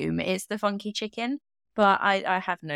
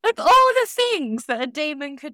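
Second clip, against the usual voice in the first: booming demonic lord voice; dark lord; 4 semitones higher, 4 dB louder than usual. Pretend. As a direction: play a theatrical evil overlord. Voicing a demon.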